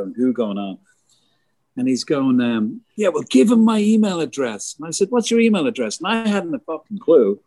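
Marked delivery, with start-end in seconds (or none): 3.0-4.8 high, excited voice of a singer; a high-pitched imitation of a singer; quoting a singer. Retelling a singer's words. 5.1-6.0 high, baffled question; mock puzzled. Retelling his own question.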